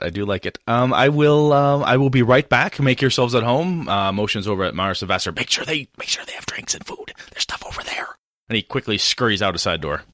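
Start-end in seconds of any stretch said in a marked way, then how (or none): 5.3-8.1 hushed aside to the guests; urgent whisper. Acted. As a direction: whisper it quickly so the lady won't hear.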